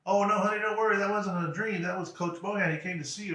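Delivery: lightly imitated mom, pitched high; reassuring mother. Mother reassuring her son about his dream, high voice. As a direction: soothe him in a high motherly voice.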